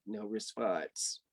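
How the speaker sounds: dry deadpan refrain. A narrator's reading. Narrator's flat repeated refrain.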